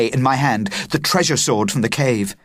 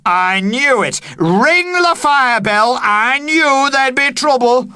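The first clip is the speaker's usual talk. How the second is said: high, loud alarmed shout; man shouting for the fire bell, loud shout; 14 semitones higher, 5 dB louder than usual. Acted. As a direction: shout the warning. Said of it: "Mister Clunthorpe shouted".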